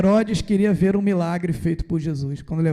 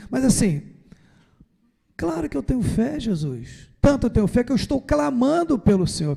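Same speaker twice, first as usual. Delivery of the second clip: pleading disciple; 5 semitones higher than usual. Retold or imitated. Disciple pleading his faith.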